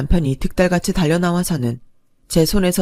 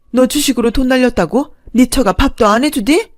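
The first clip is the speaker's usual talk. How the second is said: higher, louder fussing mother-in-law; mother-in-law fussing over her son, higher and louder; shocked mother-in-law; 5 semitones higher, 4 dB louder than usual. Acted. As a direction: cry out in alarm over her son, pitched up. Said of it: "어머님이 대뜸 그러시는 거예요".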